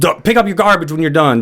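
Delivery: put-on yelling. Retelling a firefighter scolding a patient over crumbs: imitating firefighter yelling. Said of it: "He started yelling at me".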